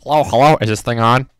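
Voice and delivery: booming into the mic; loud mic test. Acted. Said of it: "that was a bit loud".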